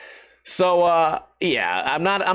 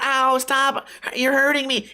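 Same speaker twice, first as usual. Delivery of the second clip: higher, whimpering pretend plea; mock victim voice; mock hurt chicken; 5 semitones higher, slower than usual. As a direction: plead as if hurt, jokingly. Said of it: "It might not be going".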